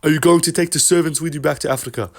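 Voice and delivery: deadpan jab in a put-on Dricus voice; Dricus impression. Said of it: "Dricus is just like".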